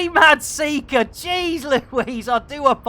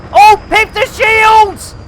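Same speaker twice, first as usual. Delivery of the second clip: loud, high, laughing yell; laughing shout; 10 semitones higher, 10 dB louder than usual. Real, not acted. Pilot crashing into a friend's ship, laughing shout. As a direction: shriek through laughter at the crash.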